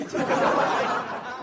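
short airy laugh; chuckling at the punchline. Real, not acted. Host laughing at a colleague's wish, short airy laugh.

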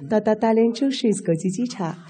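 flight safety demo. Retold or imitated. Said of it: "和风细雨，有曲有调".

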